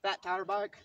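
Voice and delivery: breathless after riding; out of breath. Real, not acted. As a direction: talk while catching breath. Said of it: "so I'm kinda out of breath".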